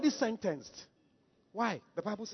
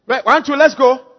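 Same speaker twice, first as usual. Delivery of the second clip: calling out; 4 semitones higher, 14 dB louder than usual. Real, not acted. Calling congregation to read together.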